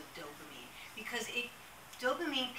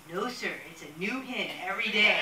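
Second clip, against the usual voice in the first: louder, laughing through the line; 7 dB louder than usual. Retold or imitated. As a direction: barely get the words out for laughing.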